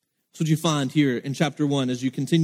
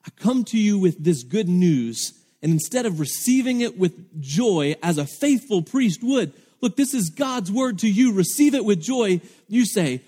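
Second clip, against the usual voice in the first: rising, higher indignant rebuke; indignant angel; 5 semitones higher than usual. Acted. Angel scolding Zechariah for his doubt, pitch climbing indignantly. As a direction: scold him like an offended messenger. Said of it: "the angel saying, "How dare you?".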